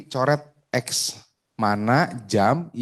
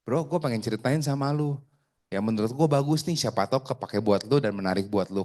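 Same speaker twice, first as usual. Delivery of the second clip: lilting, friendly pitch to a buddy; friendly intonation; 3 dB quieter than usual. Shown as a demonstration. Agent inviting a bro to hear about insurance, friendly intonation. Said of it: "intonasinya kayak gue nih".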